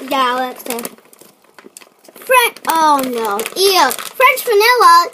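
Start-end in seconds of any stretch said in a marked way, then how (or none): 2.1-5.1 disgusted. Real, not acted. Dreading a gross flavor.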